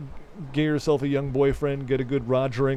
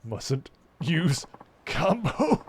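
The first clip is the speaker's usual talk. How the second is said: lightly voiced client; 6 semitones higher, much slower than usual.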